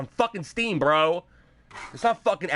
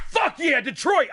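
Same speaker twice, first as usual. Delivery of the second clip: mock hype cheer; 8 semitones higher, slower than usual. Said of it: "I'm not like".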